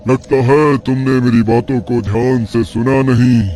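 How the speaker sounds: a hint of a cruel old mystic; taunting tantric. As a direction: sneer at his faith and his daughter's fate. Sage tempts the father.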